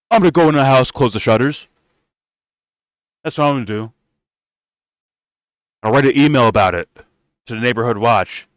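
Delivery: high, meek mock voice, rushed at the end; mocking timid Bernie. Host mocking Bernie hiding from a bully, high and meek. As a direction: play him as a scared old man hiding indoors.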